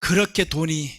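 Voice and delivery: God's weary rebuke. Acted. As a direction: say it quiet and disappointed. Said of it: "그때 이제 하나님이".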